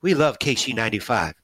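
light repeat of the singer's line, close to own voice; a faint echo of the star's friendly reply; imitating a singer. The fan repeats his idol's words, barely voiced. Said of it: "that's kinda how he talks".

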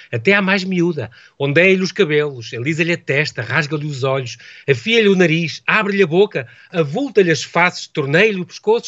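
measured recitation of a rhythmic list; reading sermon prose aloud. Acted. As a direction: read it out phrase by phrase, savouring the rhythm. Reads sermon passage aloud.

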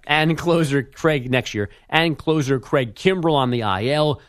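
measured radio update delivery; sports news read. Acted. Update anchor reading league news to listeners, news read. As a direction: read the headlines as a sports bulletin.

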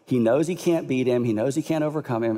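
ordinary delivery

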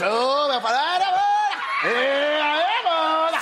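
hammed-up doorman hailing his friend; doorman's slangy greeting. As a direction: greet like a buddy from the block, drawn out. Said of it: "Aí ele faz".

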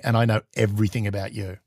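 ambassador's reply. Retold or imitated. Russian ambassador answering the teasing spy, low and quiet. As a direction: hand the threat straight back, low and cool. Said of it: "like, going".

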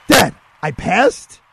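high, loud, drawn-out cry to Dad; excited disbelief. Retold or imitated. Son to father on learning he passed the exam, excited disbelief. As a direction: burst out in stunned joy, stretching the words.

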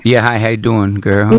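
lightly voiced street tough, sweet-talking; hip-hop gangster voice. Prank caller greets the spa receptionist as a gangster. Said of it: "hip-hop voice".

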